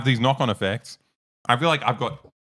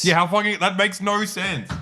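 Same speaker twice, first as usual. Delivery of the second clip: exasperated disbelief; 11 semitones higher, 3 dB louder than usual. Real, not acted. Reacting to the news story.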